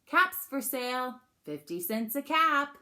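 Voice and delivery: loud, lifted peddler's cry; projected sales call, opening high; street seller calling. Acted. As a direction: call out your wares to the town. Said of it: "he walked back to town calling".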